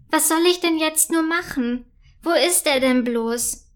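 a queen pacing in worry, lightly voiced; agitated queen. Queen frets over the lost crystal, mildly agitated. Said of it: "läuft aufgebracht".

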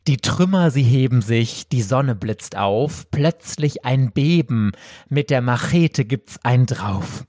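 hammy stage actor building to a shout; theatrical climax. Acted. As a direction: build the drama up to a big final cry. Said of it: "theatralischen Höhepunkt".

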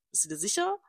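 high, soft doubtful question; imitating herself. Quoting her own reply, she asks it high and soft. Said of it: "Ich so".

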